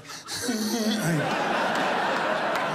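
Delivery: hammed-up benchwarmer's wail; mock sobbing. Comedian mocking a player who never played, fake sobbing. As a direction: imitate bawling from the bench. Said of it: "You can't be on the bench like".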